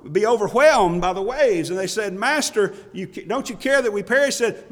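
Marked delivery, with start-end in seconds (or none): 2.1-4.4 raised, higher imploring voice; imitated urgent plea. Disciples call to their master in the storm, pleading. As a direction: plead up high, acting the disciples.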